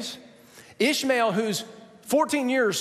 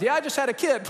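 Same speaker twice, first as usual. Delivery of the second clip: laughing; 8 semitones higher, faster than usual. Retold or imitated. Sarah telling everyone about Isaac.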